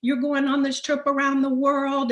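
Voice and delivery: retold shouting. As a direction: replay his heated insistence. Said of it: "shouting at each other".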